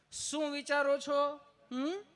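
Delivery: high, slow sugary nurse; sweet nurse. Retold or imitated. Nurse voiced in a story. (નર્સનો મીઠો લાંબો અવાજ)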